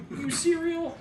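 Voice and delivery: high, slangy "You cereal?"; mock a dopey kid; clueless teen. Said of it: "he was still like".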